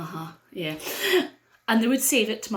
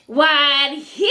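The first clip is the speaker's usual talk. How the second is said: fairy voice; 4 semitones higher, 7 dB louder than usual. Acted.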